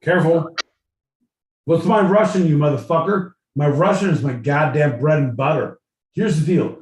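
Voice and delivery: loud mock Aussie outrage; shouted cartoon Australian rant; Australian accent. Answers in put-on Aussie rant.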